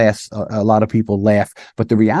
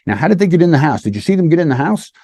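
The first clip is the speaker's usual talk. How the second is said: eager questioning; 5 semitones higher, faster than usual. Shown as a demonstration. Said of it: "and you're asking about".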